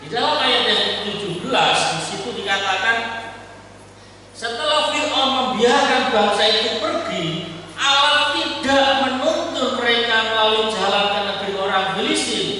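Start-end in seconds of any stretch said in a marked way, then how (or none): 4.3-12.5 scripture reading. Acted. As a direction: read the verse with weight. Reads scripture aloud. (membaca ayat Alkitab dengan khidmat)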